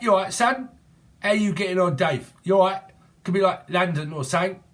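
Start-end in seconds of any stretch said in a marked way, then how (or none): 0.0-2.8 put-on higher, louder cheeky British accent. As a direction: greet Dave in a broad British accent. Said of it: "British or saying, speak like that".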